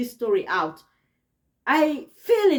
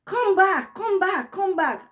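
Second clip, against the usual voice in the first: mom calling back; 7 semitones higher than usual. Retold or imitated. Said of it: "she was calling my name".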